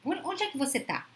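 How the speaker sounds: suspicious, demanding "Onde é que você tá?" with the pitch pushed up; accusing tone. Retold or imitated. Wife grilling her husband about where he is: suspicious demand. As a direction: ask "você tá" as if catching him out. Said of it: "Olha o tom".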